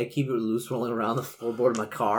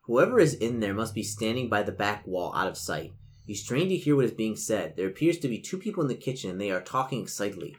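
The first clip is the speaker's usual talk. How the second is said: measured gamebook read-aloud; game master narration. A narrator's reading. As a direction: set the scene for the players. Game master reads scene.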